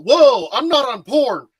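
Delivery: alarmed protest. Retold or imitated. Husband caught on his phone beside his wife, mock alarm. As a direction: blurt a startled defence, stretching it out. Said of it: "and I'm all".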